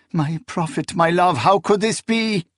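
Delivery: anguished disbelief. A narrator's reading. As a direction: ask it in stricken bewilderment. Dying woman questioning her prophet.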